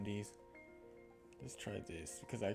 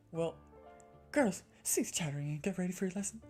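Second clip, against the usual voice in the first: raised, louder schoolmistress voice; stern headmistress character; 4 semitones higher, 4 dB louder than usual. Acted. Headmistress calling chattering girls to lesson, stern raised voice. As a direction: call the class to order, high and loud.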